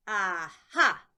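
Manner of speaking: loud, gloating aha; triumphant judge. Acted. Judge catching Lucy out, loud gloating aha. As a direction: pounce on the discovery. Judge finds the small print.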